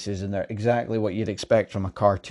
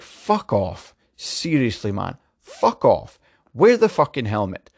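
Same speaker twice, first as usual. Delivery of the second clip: frustrated outburst; slower than usual. Real, not acted. Ranting at helmet removal.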